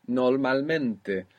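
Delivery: Normalmente said slowly, nor-mal-MEN-te; slow modelling. Shown as a demonstration.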